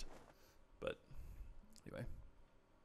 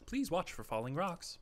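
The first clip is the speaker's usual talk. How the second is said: slow, higher robot voice; computerized voice; 6 semitones higher, slower than usual. Retold or imitated. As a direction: read it like a computer system. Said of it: "like, a computerized voice".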